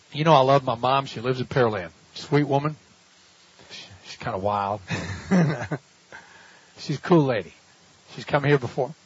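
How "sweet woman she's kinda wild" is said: normal talking voice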